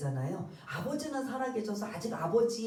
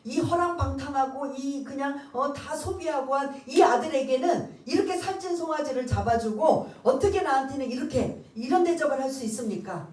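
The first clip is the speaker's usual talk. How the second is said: louder, indignant demands of a wronged son; angry protest; 3 semitones higher, 4 dB louder than usual. Retold or imitated. Elder son confronting his father, indignant and loud. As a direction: confront the father, voice rising in grievance. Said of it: "아버지한테 막 따지는 거예요".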